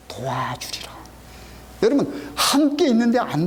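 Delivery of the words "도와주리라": whispered promise. Acted. Preacher whispers God's promise to the congregation, hushed. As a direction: breathe the words as a soft whisper.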